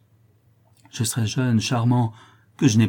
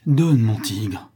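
eager cry; 4 dB louder, much slower than usual. Acted. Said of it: "s'écria Cécilie".

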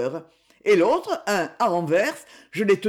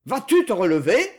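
shouted demand; 2 semitones higher, 4 dB louder than usual. Acted. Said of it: "cria-t-il".

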